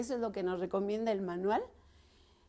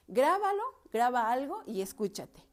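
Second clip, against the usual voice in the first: emphatic command; 2 semitones higher, 5 dB louder than usual. Real, not acted. Urging listeners to record themselves.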